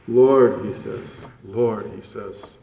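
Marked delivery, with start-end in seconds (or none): 0.1-0.6 "Lord" called out with aching feeling, a little louder; plaintive cry. Acted. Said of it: "Such pathos". 1.4-1.9 "Lord" dropped lower and softer, full of pathos; hushed plea. Acted. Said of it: "Such pathos".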